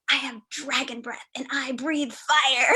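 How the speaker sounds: put-on slow, playful little-kid boast; imitated little girl. Little girl announcing her secret power, imitated playfully. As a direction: lightly act out a child's grand announcement. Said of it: "she was like".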